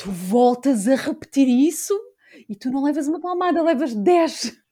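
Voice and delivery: furious scolding. Retelling how she scolded her child upstairs: imitating her own furious scolding. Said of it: "eu cheguei lá acima furiosa e disse".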